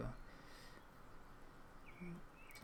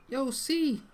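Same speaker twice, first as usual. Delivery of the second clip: Kuno; 11 semitones higher, 7 dB louder than usual. Acted. Kuno calls out indignantly.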